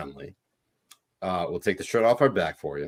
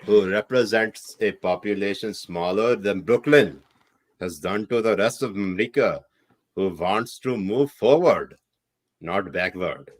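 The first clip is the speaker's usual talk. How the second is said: put-on Pakistani accent. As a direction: read the tweet aloud in a Pakistani accent. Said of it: "read it in my Pakistani accent".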